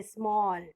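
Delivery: स्मॉल said in one go; स्मॉल in one beat, no break; one unbroken syllable. Shown as a demonstration. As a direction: say स्मॉल as a single unbroken sound. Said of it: "एक ही बार में बोल दिए".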